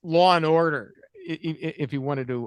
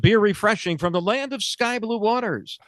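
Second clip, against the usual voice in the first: chipper 1950s ad; 4 semitones higher than usual. Retold or imitated. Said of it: "makers of Old Style".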